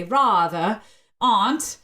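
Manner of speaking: New England broad open vowels on "rather" and "aunt"; New England pronunciation. Shown as a demonstration. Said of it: "if you're from New England too, you'd say".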